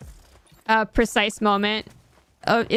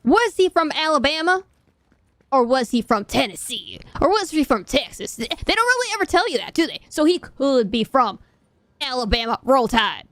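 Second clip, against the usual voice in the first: put-on Foghorn Leghorn Southern accent. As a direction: stretch it out in a hammed-up Alabama accent. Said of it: "I sound like Foghorn Leghorn".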